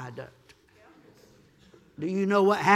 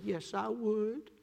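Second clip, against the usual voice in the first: softly retold answer, higher and drawn out; 4 semitones higher, 5 dB quieter, slower than usual. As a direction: give a slow, gentle yes. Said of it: "in a soft tone".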